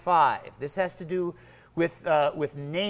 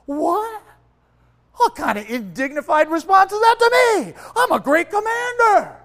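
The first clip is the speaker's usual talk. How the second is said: much higher, loud, affronted squawk; indignant outrage; 9 semitones higher, 9 dB louder than usual. Retold or imitated. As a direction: bristle like an insulted general. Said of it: "there's Naaman going".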